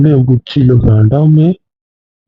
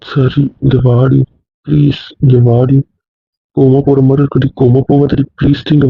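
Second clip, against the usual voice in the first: coaxing. Real, not acted. Husband coaxing wife gently.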